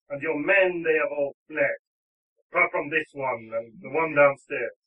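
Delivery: a touch of heroic indignation; mildly impassioned challenge; lightly voiced defiant lover. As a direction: declare it firmly to a rival.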